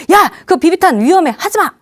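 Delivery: high, irritated parental rebuke; hot-tempered dad. Acted. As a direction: scold the child sharply. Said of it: "이렇게 또 화끈이가 나오면".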